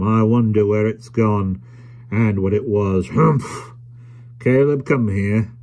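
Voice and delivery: slow pondering ending in a humph; lightly voiced suspicious trader. Tackleton eyeing the room and summoning Caleb, suspicious. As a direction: wonder pointedly, then summon him.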